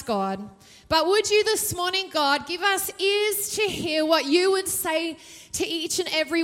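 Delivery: earnest prayer voice, addressing God; pastor's prayer. Real, not acted. Pastor praying for the church before the sermon, earnest. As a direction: lift the congregation in prayer.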